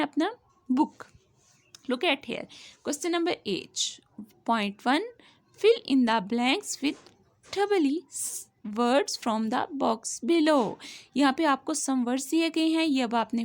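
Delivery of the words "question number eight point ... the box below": very slow, word by word; slow classroom reading of the instruction; slow dictation reading. Shown as a demonstration. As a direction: read the instruction aloud slowly. Reading the question slowly.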